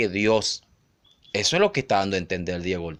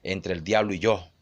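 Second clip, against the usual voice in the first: quiet aside; 4 semitones lower, 5 dB quieter than usual. Retold or imitated. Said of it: "como diciendo".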